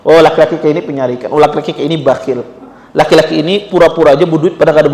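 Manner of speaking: rattled off fast and low under the breath; a widow sizing up a suitor, muttering quickly to herself; widow's quick inner thoughts. Retold or imitated. Preacher voicing a widow's wary thoughts about a suitor, fast low mutter. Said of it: "dia sudah bisa baca".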